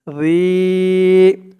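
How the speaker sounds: "রি" said as a soft Arabic dh with long ee; soft dhal sound. Shown as a demonstration. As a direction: hold "রি" long, its consonant a soft dh. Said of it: "লালের উচ্চারণটা নরম হবে".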